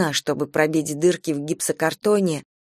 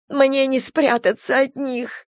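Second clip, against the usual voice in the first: calm detached; 6 semitones higher, slower than usual. A narrator's reading. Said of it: "Голос её звучал спокойно и невозмутимо".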